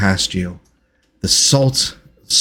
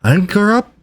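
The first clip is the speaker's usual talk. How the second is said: higher-pitched attempt at a female captain; Captain Talia; 10 semitones higher than usual. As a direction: call it out in an attempted captain's accent, rising at the end. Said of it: "you hear Captain Talia's voice".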